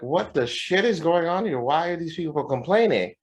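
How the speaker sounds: high-pitched mock disbelief; retold bafflement. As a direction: act out being totally baffled.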